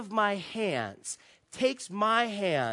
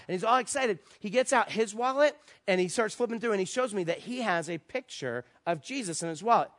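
normal talking voice

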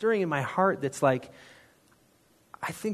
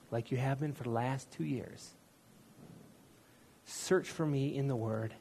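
gentle voice of God. Retold or imitated. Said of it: "I heard him say this in a voice".

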